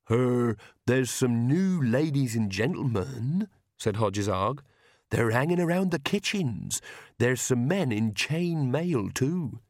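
put-on slow, halting old falconer; a slow, simple servant's drawl; Hodges Arg voice.

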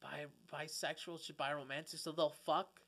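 whispered "bisexual" under his breath; a quiet aside. Real, not acted. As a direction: whisper it to yourself. Muttering to himself mid-thought.

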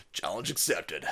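low, understated catchphrase; hushed mock-serious delivery; low and quiet. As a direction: say it softly, well down in pitch. Same catchphrase said two ways.

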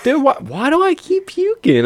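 put-on very high, pleading drunk whine; mock bewildered whine. Drunk guy begs his sleepy friends, hammed-up high whine. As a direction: play up your own drunken confusion. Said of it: "And I'm like".

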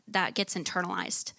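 ordinary talk, nothing marked

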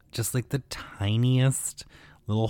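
tiny whispered joke. Pretend. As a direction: breathe it like a secret. Joking aside about lobotomy.

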